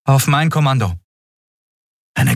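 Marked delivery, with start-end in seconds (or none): 0.1-1.0 put-on higher, brisk young woman's voice; young captain Andriel. A narrator's reading. Captain explains to her crew, lively and quick. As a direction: lift it up and push on briskly.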